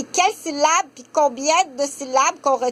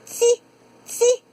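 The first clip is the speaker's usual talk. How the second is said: put-on high little child saying « ti »; toddler syllable; 10 semitones higher than usual. Shown as a demonstration. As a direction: babble « ti » like a toddler. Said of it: "elle retient le mot Patty". (« ti » d'une voix aiguë de tout-petit)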